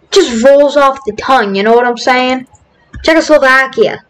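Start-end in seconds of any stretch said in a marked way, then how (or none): 3.0-4.1 a hint of Boston on the word; Boston accent. Shown as a demonstration. Gamer relishing a favorite word, Boston accent. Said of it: "say it with a Boston accent".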